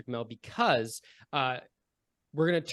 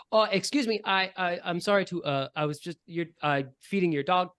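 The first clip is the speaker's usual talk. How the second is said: put-on high, flustered little boy; a shy kid apologizing, pitched up; young boy ranger; 4 semitones higher than usual. Cole the kid ranger apologizes to Mel, high and flustered. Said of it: "Cole the Ranger turns to you, Mel, and says".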